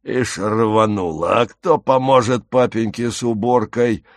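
lightly hoarse jeer; mock-concerned taunt, a touch hoarse; wheezy taunting voice. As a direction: sneer it out as a husky thug. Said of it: "просипел чей-то голос".

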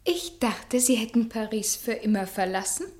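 hushed whisper. Acted. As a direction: barely voice it, hurt. Hurt reunion, guarded words.

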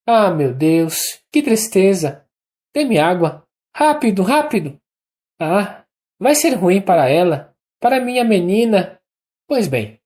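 high, ringing, uneven delirious voice; feverish Anna. A narrator's reading. Dying Anna talking feverishly in bed, high and uneven. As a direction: rush out the words in a high, moved, feverish voice. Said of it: "voz sonora e entonação extraordinariamente irregular e comovida".

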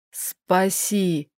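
low, soft rasping plea; a strangled hoarse cry for help. A narrator's reading. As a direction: croak it out, half-choked. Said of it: "прохрипел Айрол".

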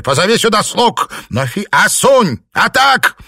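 high, loud yell for the servants; shouting orders. A narrator's reading. Master yelling for the servants, loud shout. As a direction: call out across the house, enraged.

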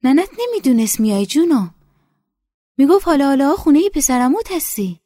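put-on high, loud, eager voice of an older village woman. A narrator's reading. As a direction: greet her like a long-lost daughter. Nesa talks to the girl.

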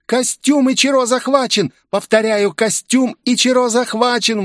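high, urgent report of the capture; the new girl reporting the suit is seized; exclaimed alarm. A narrator's reading. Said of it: "воскликнула новенькая".

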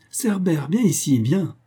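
king calling his guard dog. Acted. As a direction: summon the hound at the gate.

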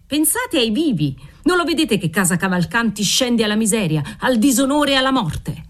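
a father berating his daughter, understated fury; mild angry tirade. Acted. Father rants at women.

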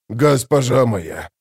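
slow, moaning "Госпожа моя"; a broken soldier moans to his lady, slowly; moaned. A narrator's reading. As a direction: draw it out as a moan of shame. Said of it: "простонал Гурни".

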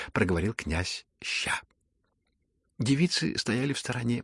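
plain reading voice

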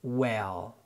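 "well" with a light eh, lifting at the end; light short e. Shown as a demonstration. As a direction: give "well" an open short e as in "bed". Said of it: "كسرتها خفيفة، فبنقول". (well بكسرة خفيفة)

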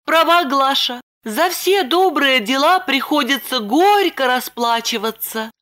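put-on high young woman's voice, lightly eager; Lipochka reassuring. A narrator's reading. Lipochka telling Roman the bandit left, high voice. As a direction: pitch up into Lipochka.

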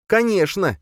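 high, sneering conkechno; through the teeth. Acted. Boya sneering at Yakob, high and mocking. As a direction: grind it out with scorn. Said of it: "процедила она".

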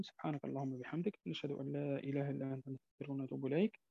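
quick, soft murmured closing prayer. Real, not acted. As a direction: hurry through the closing prayer quietly. (دعاء ختام المجلس بصوت خافت سريع)

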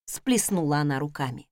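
plain reading voice

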